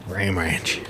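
breathy whispered echo; whispering. Pretend. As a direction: whisper it back under your breath. Echoing a song-title joke.

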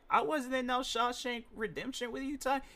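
a light take on an offended star; indignant Samuel Jackson. Retold or imitated. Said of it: "Samuel Jackson was like".

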